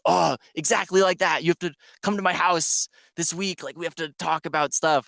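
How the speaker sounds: retold excitement. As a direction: gush like a fan who found a kindred spirit. Mark excited at shared taste.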